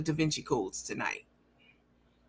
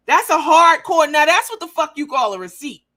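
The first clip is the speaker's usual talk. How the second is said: much higher and louder, crowing; triumphant; 7 semitones higher, 9 dB louder than usual. Real, not acted. Crowing to viewers about the receipt. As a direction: crow over the proof. Gloating over proof.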